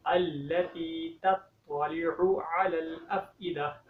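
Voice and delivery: slow, drawn-out tajweed recitation; Quran recitation. Shown as a demonstration. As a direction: recite each word slowly and carefully. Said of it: "slow Quran recitation demo". (धीमी तजवीद वाली तिलावत)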